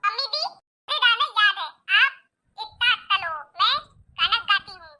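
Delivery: lisping daughter-in-law. Acted. Daughter-in-law telling mother-in-law she will sing, lisping. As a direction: soften consonants into a baby-talk lisp. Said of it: "बहू सच में तोतली है".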